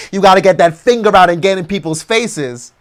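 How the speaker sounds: ordinary talk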